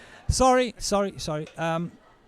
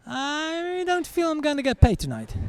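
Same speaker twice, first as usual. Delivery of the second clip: a higher, changed voice, lightly done; deflated bailiff; 10 semitones higher than usual. Acted. Bailiff giving up on payment, lightly voiced deflation. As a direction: let the tough guy cave. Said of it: "the bailiff's voice changes".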